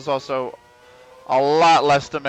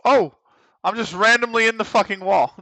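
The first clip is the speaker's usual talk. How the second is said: surprised; 8 semitones higher, 3 dB louder than usual. Real, not acted. Car suddenly stuck in wall.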